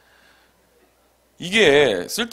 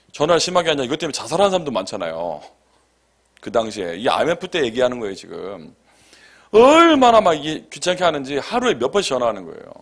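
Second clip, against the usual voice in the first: ordinary talk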